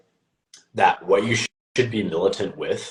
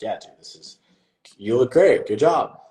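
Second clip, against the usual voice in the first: higher-pitched, upbeat hype on the praise; encouraging; 5 semitones higher, 5 dB louder than usual. Retold or imitated. Young coach praising a client's progress pictures, encouraging. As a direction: cheer him on, lifting into the compliment. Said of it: "trying to encourage him".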